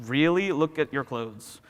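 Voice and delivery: skeptical inner voice, slowing down; mocking doubt. Mind sneering at your clothes, mocking doubt. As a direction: cast scornful doubt on the claim.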